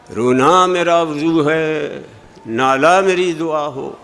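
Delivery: slow, sing-song school recitation of रोना and नाला; mock the way students are taught; hammed-up classroom reading; schoolchildren's sing-song. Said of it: "स्कूलों में पढ़ाया जाता है कि शेर इस तरह पढ़ो".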